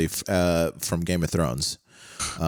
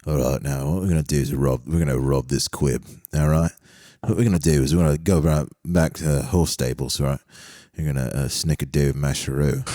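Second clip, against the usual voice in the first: mock Guy Ritchie gangster; 4 semitones lower than usual. To the immigration officer, playing a lower Cockney gangster. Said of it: "I'll look at the immigration officer and be like".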